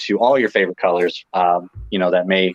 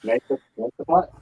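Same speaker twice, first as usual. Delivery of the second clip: distant, quieter voice away from the mic; far from mic; 4 semitones higher, 4 dB quieter than usual. Real, not acted. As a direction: speak from across the room. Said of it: "Sounds like he's far away".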